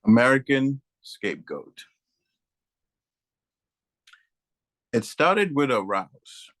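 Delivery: measured poetry reading with deliberate pauses between phrases; poem recitation. Acted. Poet reading American Scapegoat to an audience, poem recitation. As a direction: lift the start of each phrase, then let it settle. Reads own poem aloud.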